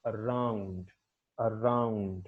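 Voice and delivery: around with the second syllable drawn out and falling; stress on second syllable. Shown as a demonstration. Teacher demonstrating primary stress to students, second syllable of around stressed. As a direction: say around slowly, leaning on "round". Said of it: "second syllable is more prominent".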